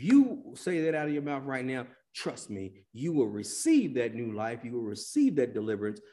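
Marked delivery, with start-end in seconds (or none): none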